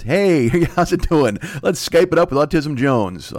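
lightly hammed-up host greeting; mock show host. Pitches imaginary show as host.

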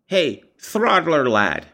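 put-on high, drawn-out little boy's call; a bratty kid slowly calling his dog; little wretch. A narrator's reading. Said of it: "whispered the little wretch".

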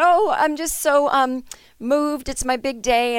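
high, tearful mock bride voice; a hammed-up sobbing bride; teary bride. Bride crying in bathroom, voiced.

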